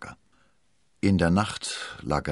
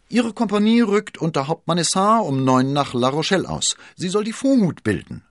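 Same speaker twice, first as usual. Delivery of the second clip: high, loud, excited messenger; panting; 12 semitones higher, 7 dB louder than usual. A narrator's reading. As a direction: blurt the news out, pitched high and out of puff. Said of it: "keuchte Planchet". (aufgeregt gekeucht, hoch und laut)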